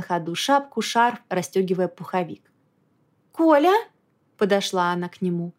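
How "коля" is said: worried. A narrator's reading. No answer, calling again.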